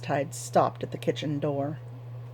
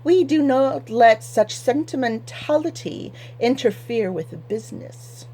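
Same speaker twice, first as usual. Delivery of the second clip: a lightly voiced prissy man, higher; high-pitched nasal voice; 5 semitones higher than usual. City man lectures the farmer in a higher, nasal voice. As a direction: pinch it up high through the nose. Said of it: "in his rather high-pitched nasal voice".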